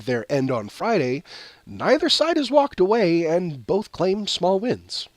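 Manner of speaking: measured newsreader delivery; slow, careful news read. Acted. Reads news story aloud.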